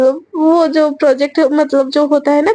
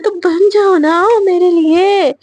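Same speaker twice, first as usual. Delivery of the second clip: higher, slow coaxing; drawn-out pleading; 4 semitones higher, slower than usual. Acted. Sejal coaxing Shreya to dance for her, drawn-out pleading. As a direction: stretch it out like a playful plea.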